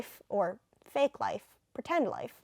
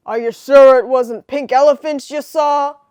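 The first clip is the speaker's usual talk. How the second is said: put-on British accent; 3 semitones higher, 14 dB louder than usual. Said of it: "I made Lois Lane kinda British".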